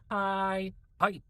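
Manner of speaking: imitated Japanese game hai. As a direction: chirp it like an anime character answering. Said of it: "When you're locked in versus when you're cash".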